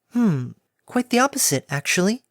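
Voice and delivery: airy timid pegasus; gentle mare voice. Acted.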